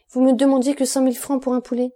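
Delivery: can't believe the price; outraged disbelief. A narrator's reading. Danglars protests the bread price to Peppino, outraged.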